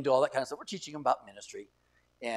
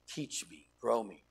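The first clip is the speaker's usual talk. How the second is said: soft breathy plea to God; whispered prayer; 4 semitones lower, 6 dB quieter, slower than usual. Real, not acted. Preacher modeling a humble prayer, soft whisper. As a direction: pray it under your breath.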